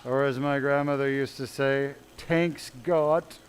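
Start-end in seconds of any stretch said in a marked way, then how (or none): 2.2-3.4 put-on "Tanks got" with a heavy old world accent, th dropped to t. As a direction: say "Tanks got" like an immigrant grandmother, th as t. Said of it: "the old world accent".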